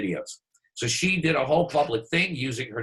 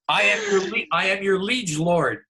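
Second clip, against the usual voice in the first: mock liege lord; 5 semitones higher, 4 dB louder than usual. Mock-solemn vow of servitude.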